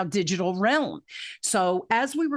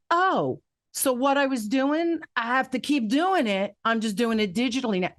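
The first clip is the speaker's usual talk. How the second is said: aha realization; 4 semitones higher than usual. Retold or imitated. Retold aha moments.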